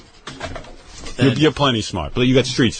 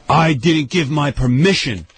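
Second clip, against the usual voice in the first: higher, slow, emphatic mock outrage; retold angry protest; 3 semitones higher, slower than usual. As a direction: imitate him fuming, stretching each word out. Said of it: "he was out in the hall screaming".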